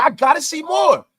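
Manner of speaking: shouted high and loud over the music; big shouted catchphrase; hype shout. Acted. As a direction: yell it like a hype man.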